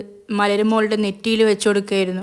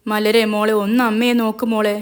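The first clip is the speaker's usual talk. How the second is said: a touch of tearful wailing, a little louder; crying out; 4 dB louder than usual. Acted. Mother calling her unconscious daughter, mildly tearful. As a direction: call her daughter through mild sobs. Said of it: "കരഞ്ഞു നിലവിളിച്ചുകൊണ്ട് വിളിച്ചു".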